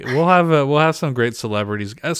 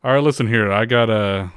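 Impression of a singer. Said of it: "So this is Elvis".

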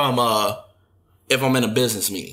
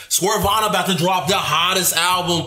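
hyped-up; 3 semitones higher than usual. Acted. Hyping a friend's album, acted.

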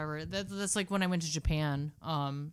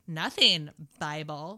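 lightly mocked socialite deadpan; Kardashian parody; 4 semitones lower, slower than usual. Parody sister swearing innocence, low deadpan. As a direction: drop it low on the last word. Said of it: "And then she's like".

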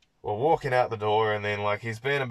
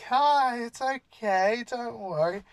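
imitating a soothing stranger; 14 semitones higher, 3 dB louder, slower than usual. Guy patting a little girl's head, high mock-soothing coo. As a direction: coo it like calming a small child. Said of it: "just, like, being like".

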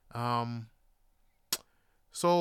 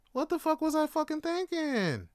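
escalated exasperation; 11 semitones higher than usual. Real, not acted. Repeats self-reproach, escalating.

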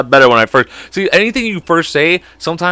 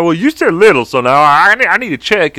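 slightly raised character voice; Teeny Weeny Strangler; 4 semitones higher than usual. Acted. Superhero confronting a guy, lightly raised comic voice. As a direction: insist on it in a put-on voice. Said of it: "I made this character".

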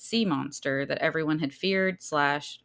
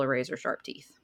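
Southern accent; 3 semitones lower, 6 dB quieter than usual. Real, not acted. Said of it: "You sounded very Southern when you said barracuda".

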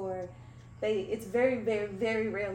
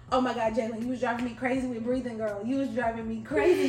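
teasing, louder, laughing; laughing mock complaint; 2 semitones higher, 5 dB louder, faster than usual. Friend teases Jalen about constant breathing, laughing. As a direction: playfully scold Jalen through laughter.

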